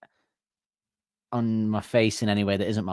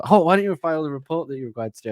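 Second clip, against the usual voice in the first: higher, fast bossy demand; fast, higher mock boss; stern boss; 5 semitones higher, faster than usual. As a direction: rattle off a mock reprimand. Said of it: "someone goes".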